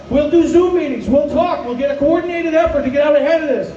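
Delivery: breathless, winded delivery; pushing on with almost no breath; running out of air. Real, not acted. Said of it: "I'm running out of breath".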